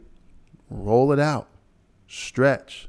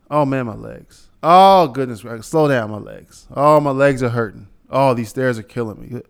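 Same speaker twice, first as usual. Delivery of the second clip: put-on frail breathless old person; 6 dB louder than usual. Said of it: "these people telling me".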